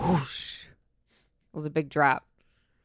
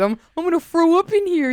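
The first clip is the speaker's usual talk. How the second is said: mock gagging panic; 11 semitones higher, 4 dB louder than usual. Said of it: "What are you gonna do?".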